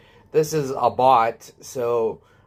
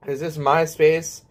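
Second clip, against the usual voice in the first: higher, laughing confused grandpa voice; mock old man; 5 semitones higher than usual. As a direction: play a befuddled old-timer as a joke. Pretends to be hundred years old.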